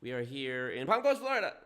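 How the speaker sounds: mimicking the host. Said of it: "you see how he".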